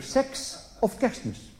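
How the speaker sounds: slow whispered question; a hushed, leering question; sly whisper. Acted. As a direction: lean in and whisper it suggestively. Husband asks wife a cheeky question.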